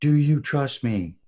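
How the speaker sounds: retold drill yell. Gunnery sergeant yelling at the recruit before the rappel, slow loud yell. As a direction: yell it slowly into his face. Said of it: "he yelled at me again".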